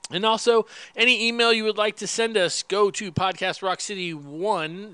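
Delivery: echoey big room; words ringing in a cave. Real, not acted. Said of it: "Joe sounds like he's in a cave".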